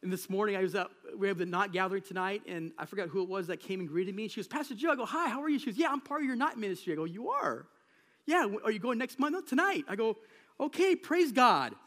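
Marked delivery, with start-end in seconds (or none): 4.5-11.8 retold exchange. Retold chat with a congregant.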